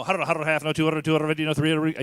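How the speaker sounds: loud, run-together mock bid calling; auctioneer patter demo. Shown as a demonstration. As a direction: rattle off numbers like an auctioneer. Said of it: "you can talk like that".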